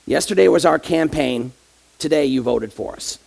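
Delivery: a hint of a smug devil patting his shoulder; devil's punchline. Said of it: "the devil... says".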